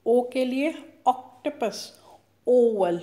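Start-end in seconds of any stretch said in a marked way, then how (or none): 1.1-1.7 octopus with a brisk, short opening O; short vowel. Shown as a demonstration. Teacher giving a short O example, short vowel. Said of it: "पहले word में हमारा short sound". 2.5-3.0 oval with a loud, long opening O; long vowel. Shown as a demonstration. Teacher contrasting with octopus, long vowel. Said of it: "long sound आ रहा है".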